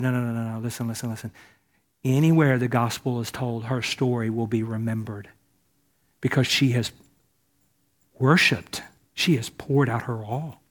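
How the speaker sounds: gentle reassurance. Acted. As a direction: settle them down tenderly. Jesus gently defends the woman.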